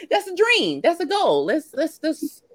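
high, laughing excited burst; excited squeal. Real, not acted. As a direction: squeal it out, giddy with the dream. Laughing dream of island mimosas.

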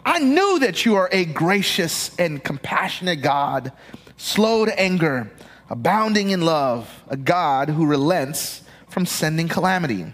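expressive Bible reading from the pulpit; scripture reading. Acted. Pastor reading Jonah chapter four aloud to the congregation, expressively. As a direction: read the passage with feeling.

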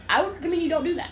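imitated friend advising, high and hurried; fast high-pitched cautioning; urgent warning. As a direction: warn someone off in a retold phone voice. Friend warns caller off.

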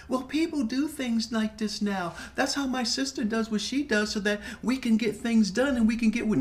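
a put-on justifying voice; mocking Virginia. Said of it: "mocking Virginia's excuse".

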